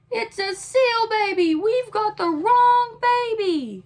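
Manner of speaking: panicked parents. A narrator's reading. Parents panic over wrong baby.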